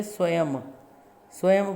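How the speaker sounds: स्वयं ending in a clear m; teacher demonstrating the final anusvara as m; final m sound. Shown as a demonstration. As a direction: close स्वयं on म. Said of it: "इसका उच्चारण मैं के समान होगा".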